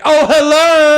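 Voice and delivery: very high loud drag falsetto; Medea voice. Pretend. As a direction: burst in shrieking hello. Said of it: "it'll be like".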